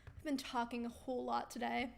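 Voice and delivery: tired, fading hoarse voice; losing voice. Real, not acted. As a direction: voice giving out after a long day. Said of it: "I'm losing my voice again".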